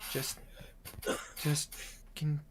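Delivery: soft, hesitant plea with long pauses; earnest healer. Acted. Healer asking a friend to flee a bad fight, softly earnest. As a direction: quietly ask for a serious promise. Character asks a grave favor.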